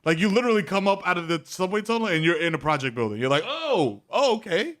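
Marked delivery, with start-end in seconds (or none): 3.5-4.7 pitched-up mock unease; alarmed realization. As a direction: play at being politely alarmed. Alarmed arrival in project building.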